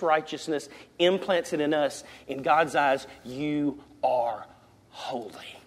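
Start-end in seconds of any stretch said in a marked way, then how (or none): 3.2-5.6 "you are holy" low and soft, HOLY near a whisper; hushed declaration. Real, not acted. Preacher tells believers how God sees them, hushed. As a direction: let "holy" drop to a low hush after a pause. Same words softened as God's view.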